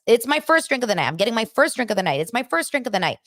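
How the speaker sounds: high mocking parrot of Sutton. Podcaster mimicking Sutton's repeated line, high mock. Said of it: "We've heard this, like, eight times".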